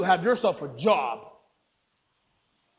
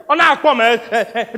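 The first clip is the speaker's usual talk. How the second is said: much louder and higher furious yell; furious shout; 8 semitones higher, 11 dB louder than usual. Acted. Narrator shouting at the producer who mangles his name. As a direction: scream your name back at him. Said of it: "My eyes went red".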